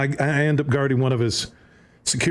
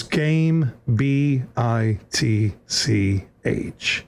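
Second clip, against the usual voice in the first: slow letter-by-letter taunt; Jordan's taunt; 3 semitones lower, much slower than usual. Retold or imitated. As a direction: spell each letter out slowly to rub it in. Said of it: "he goes".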